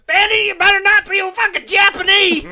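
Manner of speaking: high, loud hammed-up rant, near laughter; mock lawman's holler. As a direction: shout it like a movie sheriff in pursuit. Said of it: "literally chasing, uh, the bandit around".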